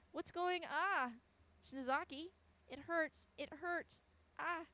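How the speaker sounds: high, gasped cries of pain; acted hurt and confusion; pained alarm. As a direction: cry out as pain suddenly hits. Acts character suddenly in pain.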